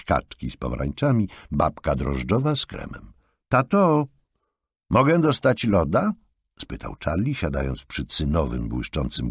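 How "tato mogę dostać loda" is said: put-on child's plea. A narrator's reading. Child asks for ice cream.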